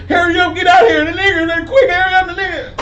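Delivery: high, loud fake panic into the phone; mock frantic shout. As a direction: ham up a woman screaming for police. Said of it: "She like".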